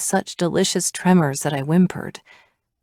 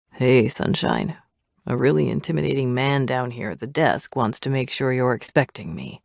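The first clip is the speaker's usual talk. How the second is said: intercom voice; 3 semitones lower than usual. Acted. Dominic over the door intercom.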